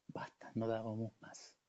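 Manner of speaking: breathy, spent whisper; whispered, worn-out surrender; exhausted whisper. Retold or imitated. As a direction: let it out with nothing left. Exhausted soldiers, no strength left.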